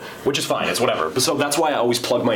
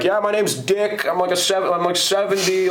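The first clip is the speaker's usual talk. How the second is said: put-on higher, slower old man introducing himself; old caller; 7 semitones higher than usual. Retelling the caller named Dick, higher slow old man voice. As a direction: play the seventy-year-old caller giving his name. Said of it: "and he was like".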